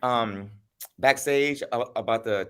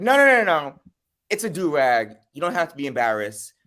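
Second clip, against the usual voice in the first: higher, louder mocking of him brushing it off; mock insistent friend; 4 semitones higher, 4 dB louder than usual. Friend insisting it's a do-rag, mocking higher voice. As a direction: imitate him waving her off, higher and louder.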